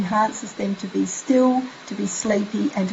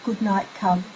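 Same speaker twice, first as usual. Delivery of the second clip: put-on soft child goodnight; 3 semitones lower, 7 dB quieter than usual. Shown as a demonstration. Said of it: "have your child say".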